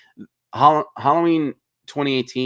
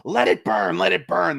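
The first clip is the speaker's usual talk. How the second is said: higher, mock defiant yell; imagined Laurie defiance; 7 semitones higher, 4 dB louder than usual. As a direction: refuse to budge, hammed up. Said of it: "she goes".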